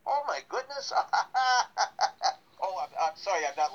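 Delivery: high surprised laugh; kind gentle laugh. Real, not acted. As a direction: burst into amused laughter. Told host will sing.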